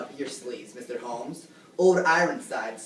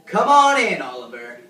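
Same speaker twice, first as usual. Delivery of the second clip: calling out; 10 dB louder than usual. Acted. Host calls the guest onstage.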